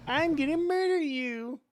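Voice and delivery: high mock villain voice; cartoon villain voice. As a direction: ham it up like a cartoon baddie. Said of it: "nineties evil villain, cartoon villain".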